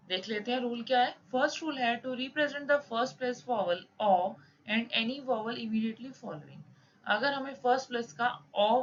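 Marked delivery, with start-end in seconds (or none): 2.0-6.6 reads the textbook rule out slowly, word by word; slow rule reading. Shown as a demonstration. Teacher reading a shorthand rule aloud to students, slow dictation. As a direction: dictate the rule at half speed.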